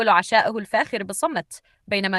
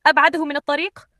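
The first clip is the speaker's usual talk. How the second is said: raised, higher shouted command; shouting order; 7 semitones higher, 5 dB louder than usual. A narrator's reading. Rich man to his driver, shouting angrily. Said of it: "يصرخ على السائق".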